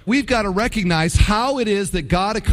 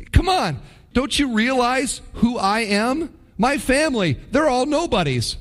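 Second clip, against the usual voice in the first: higher, pleading complaint; Gideon whining; 5 semitones higher than usual. Retold or imitated. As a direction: beg off like the runt of the family. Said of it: "that's exactly what he starts saying".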